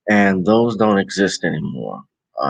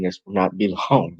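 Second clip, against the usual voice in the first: said with a small laugh before long; laughing repeat; faster than usual. Real, not acted. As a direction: laugh through the promise. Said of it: "I'm gonna keep reiterating".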